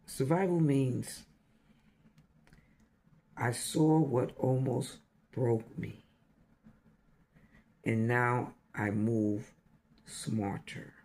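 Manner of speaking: measured verse in separated phrases; poem recitation. Real, not acted. Sharing a survival poem with listeners, measured recital. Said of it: "poetic poem with you".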